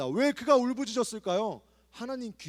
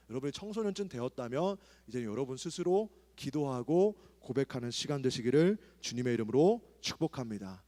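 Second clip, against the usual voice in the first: ordinary talk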